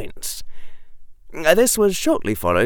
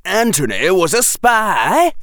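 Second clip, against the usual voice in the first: put-on raised boyish voice; mock yell; 10 semitones higher, 5 dB louder than usual. A narrator's reading. Ron yelling that Anthony was a spy, mock yell. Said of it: "yelled Ron".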